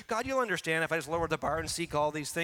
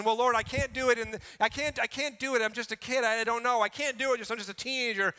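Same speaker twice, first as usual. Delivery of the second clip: put-on a higher, louder pleading teenager begging off; whiny excuse; 4 semitones higher, 3 dB louder than usual. Pastor voicing a teen's excuse to the Lord, higher and whiny. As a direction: beg the Lord to let you off, whining like a kid. Excuse voiced by young believer.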